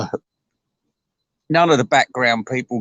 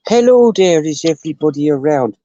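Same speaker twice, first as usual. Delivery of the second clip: higher, louder greeting call; bright loud hello, far higher; 3 semitones higher, 4 dB louder than usual. Real, not acted. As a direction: call out to the room on coming back. Calling out on return.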